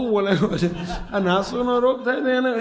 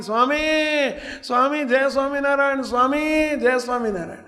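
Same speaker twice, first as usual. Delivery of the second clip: higher calls across the road, rising to a cry; calling out; 5 semitones higher than usual. Retold or imitated. Beggar calls to the saint passing by, a raised calling cry. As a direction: call out to get the saint's attention.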